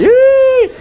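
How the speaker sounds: sudden loud falsetto squeak; short piercing high yelp; high squeal. Shown as a demonstration. High squeal after low singing.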